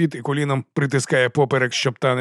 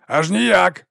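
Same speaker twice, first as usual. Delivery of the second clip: shouting; 7 semitones higher, 4 dB louder than usual. A narrator's reading. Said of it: "кричить Хіро".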